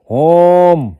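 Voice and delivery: ہوم with a long, open او; long vowel demo. Shown as a demonstration. Teacher showing students the long او in ہوم. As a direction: draw out the او in ہوم. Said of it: "او کھل کر آواز دے رہا ہے".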